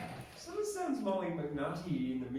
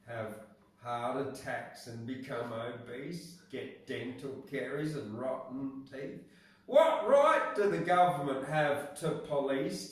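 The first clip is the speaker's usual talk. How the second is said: rhythmic A B A B recitation; poem reading; 3 dB louder than usual. Acted. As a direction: read the rhyme like a speech. Reads lolly act poem.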